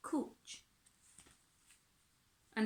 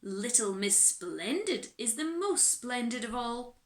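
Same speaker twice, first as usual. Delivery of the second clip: reluctant reply. Acted. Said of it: "came the reluctant reply".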